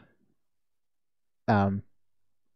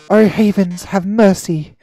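melodramatic. Acted. Melodramatic lament.

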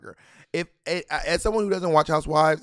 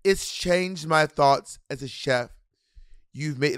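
slow mock-British praise; a hint of the chef turning sweet; imitating Gordon Ramsay. Imitating Gordon Ramsay praising the cook, slow and drawn out. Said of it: "he goes".

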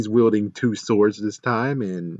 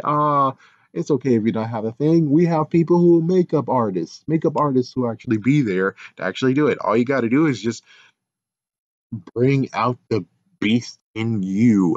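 reassuring Simone pitch; 3 semitones higher than usual. Retold or imitated. What Simone should say.

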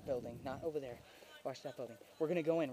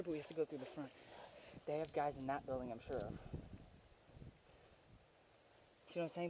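hushed planning; 5 semitones lower, 12 dB quieter, faster than usual. Real, not acted. Quietly planning the assault.

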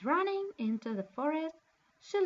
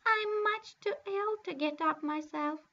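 cried out; 3 semitones higher, 3 dB louder than usual. Acted. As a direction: call out from bed, too ill to rise. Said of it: "cried the grandmother".

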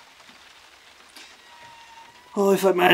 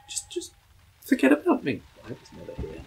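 whispering; 9 semitones higher, 6 dB quieter than usual. Pretend. Hiding from ghost.

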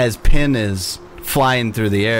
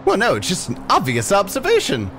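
much higher, showing off; boastful pixie; 8 semitones higher than usual. Acted. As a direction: crow about yourself like a tiny diva. Pixie preening.

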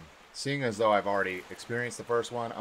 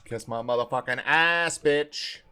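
shouting; 4 semitones higher, 7 dB louder, slower than usual. Real, not acted. Player taunts the monster.

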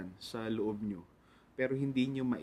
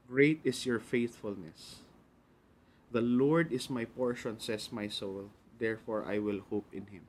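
Scripture reading. Acted. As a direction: read the verses out phrase by phrase, unhurried. Reads Scripture to the congregation. (mabagal na pagbasa ng Bibliya)

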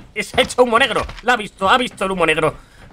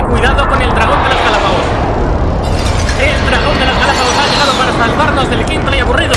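epic announcer; 5 dB louder than usual. Acted. Mock epic game commentary.

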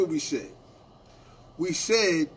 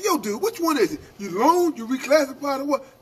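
higher-pitched, insistent questioning; retold confrontation, pitched up; challenging demand; 5 semitones higher than usual. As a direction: press him for a straight answer. Acted confrontation over conflicting stories.

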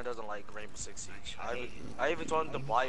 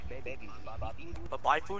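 drawn-out question; much slower than usual. Pretend.

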